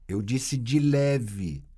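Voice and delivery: "de leve" stressed slowly and deliberately; slow firm repetition. Real, not acted. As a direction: insist on "de leve", drawn out. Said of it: "passe de leve". (repetindo devagar e firme "de leve")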